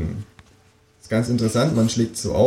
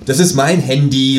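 mild call; 5 semitones higher, 4 dB louder than usual. Acted. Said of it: "rufe ich".

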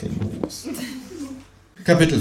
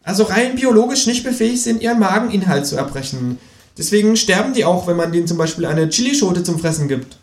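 lecturing kangaroo; 10 semitones higher than usual. Acted. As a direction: share a stoned theory. (dozierende, hohe Känguru-Stimme)

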